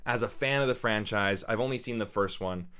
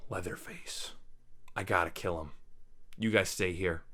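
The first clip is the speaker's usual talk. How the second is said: mock tough heroine; 5 semitones lower, 7 dB quieter than usual. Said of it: "she's like".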